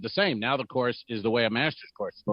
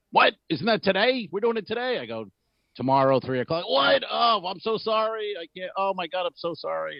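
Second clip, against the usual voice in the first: much higher, panicked apology; flustered Mark Norman; 10 semitones higher than usual. Retold or imitated. Host retelling a guest's mix-up, high flustered voice. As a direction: squeak out a shocked sorry. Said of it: "and he goes".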